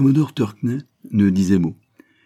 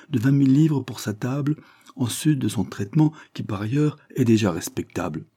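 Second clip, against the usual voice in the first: triumphant captain; 6 semitones higher than usual. Acted. Captain crowning his general's boast, triumphant. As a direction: land the boast proudly.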